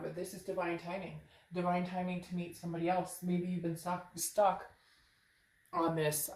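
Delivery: numb mouth after dental cleaning; slurring after dentist. Real, not acted. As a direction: talk with a sore jaw, slurring S's. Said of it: "now I feel like I'm slurring my S's".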